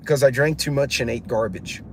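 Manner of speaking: retold matter-of-fact deadpan reply. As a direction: answer without any show of feeling. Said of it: "I just said it deadpan".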